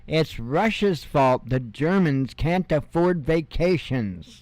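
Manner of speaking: reading "It's Russia's fault" slowly with mock gravity; slow mocking headline read. Shown as a demonstration. Host mockingly reading a Berlin headline to viewers, slow and dry. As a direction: drag out the headline as if it were absurd. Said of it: "I love this".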